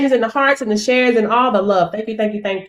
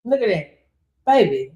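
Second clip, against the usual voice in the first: ordinary delivery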